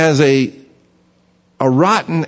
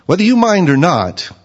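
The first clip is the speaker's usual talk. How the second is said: pushy friend. Retold or imitated. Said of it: "he says".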